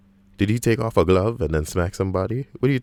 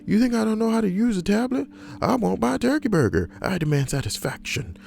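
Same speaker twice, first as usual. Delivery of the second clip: screaming; 14 semitones higher than usual. Retold or imitated. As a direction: scream like a spoiled customer. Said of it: "Guy starts screaming".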